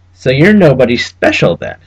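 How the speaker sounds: lightly voiced clerk. Trubshaw needling Cabal.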